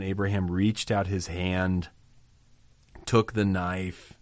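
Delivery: each action drawn out slowly; slow the narrative to a crawl; slowed reading. Shown as a demonstration. Preacher reading the climax slowly to the congregation, slow and deliberate. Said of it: "how slow".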